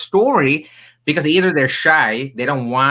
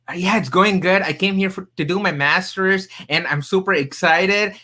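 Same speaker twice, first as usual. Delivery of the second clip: retelling his own eager, higher-pitched answer; eager newcomer; 6 semitones higher than usual. Retold or imitated. Telling the listener how he answered the stranger, eagerly. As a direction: sound like the keen new arrival again.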